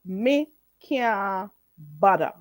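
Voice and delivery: teaching the Patois phrase, unhurried; Jamaican Patois. Shown as a demonstration. Teacher demonstrating Jamaican Patois to viewers. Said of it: "That's how you say it".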